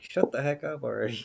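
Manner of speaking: put-on annoyed commentator voice. Describing a commentator fed up with his commentary partner, imitating Vince's annoyed tone. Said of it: "he's just annoyed".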